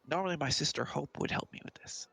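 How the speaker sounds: put-on little kid. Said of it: "I'm just a little kid".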